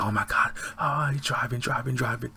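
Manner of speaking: breathless hushed whisper of disbelief; panicked whisper. Retold or imitated. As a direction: whisper it like a shocked onlooker. Frantic bystander watching him drive.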